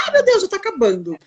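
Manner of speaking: amused, high-pitched fretting; laughing mock panic. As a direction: laugh through the fake alarm. Self-quote at end of lives.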